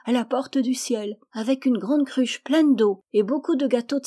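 put-on a child picturing mother at heaven's door; high hopeful child; dreamy little girl. A narrator's reading. Narrator voices the child.

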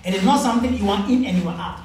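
loud, fast emphatic preaching. Real, not acted. Preacher warns the church, loud and fast. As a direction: hammer the point home.

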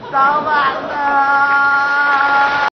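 drawn-out, chanting mock sobs; hammed-up wailing. Fake customer begging the boss's forgiveness by phone, wailing. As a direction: wail the apology in long, stretched syllables. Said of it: "您别哭了好不好".

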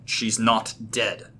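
ordinary delivery, nothing marked

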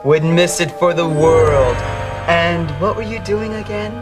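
sarcastic fake sweetness. Rival gloats with fake sweetness.

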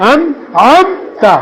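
"আন আমতা" in two parts, আন ending cleanly on n; correct pronunciation. Shown as a demonstration. Teacher repeating the correction for students, careful "আন আমতা" without added e. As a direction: repeat "আন", pause, then "আমতা" with no e between. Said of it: "আনে হবে না".

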